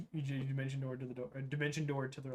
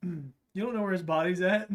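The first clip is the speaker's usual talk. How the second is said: shady merchant voice; 4 semitones higher, 6 dB louder, slower than usual. Acted. Dealer voice louder, slow.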